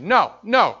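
put-on a drunk father's hateful roar; drunk father's rant. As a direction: spit out the hatred slowly. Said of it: "He said".

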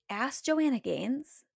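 slow, disbelieving question rising on Joanna; incredulous echo. Retold or imitated. Reacting to her own strange thought, slowed and incredulous. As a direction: repeat the idea back as if it's absurd. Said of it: "And I was like".

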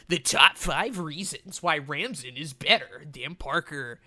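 announcer-style hyped gamer voice; hyped gamer bro. Pretend. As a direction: pump it up like a gamer countdown. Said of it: "let me do like a gamer voice".

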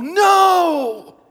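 sudden high shout of no; loud alarmed no; yell. Retold or imitated. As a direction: cry out to stop her. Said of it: "I wanted to yell".

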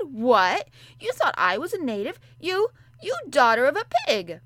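put-on furious child screaming insults. A narrator's reading. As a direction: spit the insult out in rage. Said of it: "Mary sat up in bed furious".

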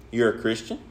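"you're a Christian" softly, tune rising on Christian; quiet doubting question, lifting at the end of "Christian". Retold or imitated. Farm coworker asks the preacher after church, questioning "you're a Christian". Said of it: "He said it like a question".

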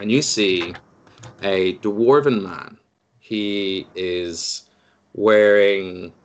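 slow, drawn-out game master narration; scene setting. Acted. Game master reveals a dwarf at an oak door, slow scene setting. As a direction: unveil the scene slowly, with pauses.

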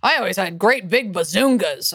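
proud mom voice, pitched a bit differently; man doing a woman's voice. Retold or imitated. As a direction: brag like a vain mother. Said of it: "Your impression of your mom is so funny".

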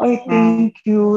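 high, loud, drawn-out grateful thanks; retold grateful gushing; touched thanks. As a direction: gush thanks, slowly stretched out.

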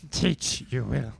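lightly voiced Yoda; a hint of Yoda, backwards words; Yoda impression. Joking as Yoda to Obi-Wan, lightly voiced. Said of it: "Hey, Obi-Wan".

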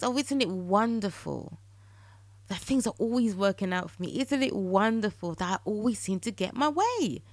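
delighted, savouring wonder; with tone and passion. Shown as a demonstration. Podcaster modelling affirmations for listeners with tone and passion. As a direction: say it like it's already yours. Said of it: "you say it with tone and you say it with passion".

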